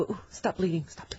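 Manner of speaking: mock under-breath muttering. Retelling mom tweezing eyebrows, imitating someone muttering under breath. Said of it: "my mom under her breath going".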